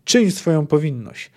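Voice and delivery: mildly pompous command; a touch of put-on solemnity; artificial emphasis. Mourning official orders the executioner to do his duty, artificially emphatic. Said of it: "rzekże sztuczną emfazą żałobny".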